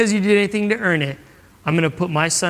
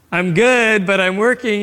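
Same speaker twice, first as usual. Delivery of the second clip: louder, higher brush-off; distracted, busy; 4 semitones higher, 4 dB louder, slower than usual. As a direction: answer while busy with work.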